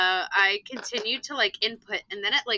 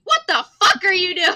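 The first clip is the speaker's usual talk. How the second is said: high, loud disbelieving outburst; exasperated mock shout; 8 semitones higher, 9 dB louder than usual. Teacher's unspoken reaction to a screeching pupil, exasperated shout. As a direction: yell what you could only think, half laughing. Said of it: "this is what I would say".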